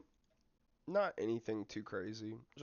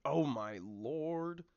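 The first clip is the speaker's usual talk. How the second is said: dismayed gasp; 5 semitones higher, 6 dB louder, much slower than usual. Real, not acted. Tense near miss in match.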